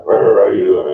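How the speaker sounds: loud growled mumble of a boss; imitated gruff boss. Imitates cigar-smoking old boss.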